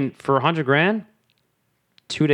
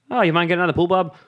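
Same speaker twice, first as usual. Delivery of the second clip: lightly voiced casual neighbour, raised pitch; casual polite request; 5 semitones higher, faster than usual. Neighbour asking Bob to leave the pool, casually polite. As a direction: ask it as mild small talk. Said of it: "just an everyday conversation".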